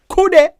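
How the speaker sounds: "Kude" squealed very high and loud, falling; "Kude" popped out high and sharp; high exclaimed "kude". Shown as a demonstration. Teacher showing the sound of the word, high exclaim. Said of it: "See how it sound?".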